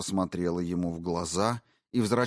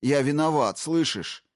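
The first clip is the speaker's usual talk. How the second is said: rising higher and louder in panic; desperate admission; 4 semitones higher, 5 dB louder than usual. Acted. Husband giving in to the intruder, loud and desperate. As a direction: beg him to stop. Husband confessing under threat.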